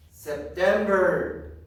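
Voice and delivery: loud and stretched out; drawn-out, emphatic model word; teacher's drill call. Shown as a demonstration. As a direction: call it out slowly for the class. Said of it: "I am going to say".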